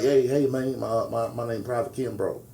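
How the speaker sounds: a hint of a country twang, retelling an introduction; imitated country twang. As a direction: mimic a Southern soldier's country accent. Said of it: "a black dude speak country".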